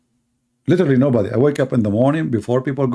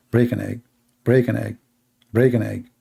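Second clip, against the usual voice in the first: soft, low monotone repetition; stuck CD voice; 4 semitones lower, 4 dB quieter than usual. Retold or imitated. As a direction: drone like a skipping disc. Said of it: "stuck CD story".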